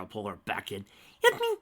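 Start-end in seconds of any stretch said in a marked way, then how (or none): 1.2-1.6 high scream. Acted. Rarity screaming.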